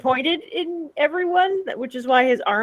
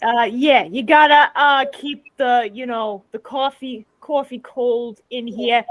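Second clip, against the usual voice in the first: construction worker voice. Pretend. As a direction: play a blunt construction worker. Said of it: "I think lumberjack voice".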